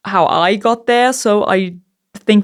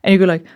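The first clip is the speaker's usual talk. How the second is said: annoyed sigh; much faster than usual. Shown as a demonstration. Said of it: "you're really fucking annoyed".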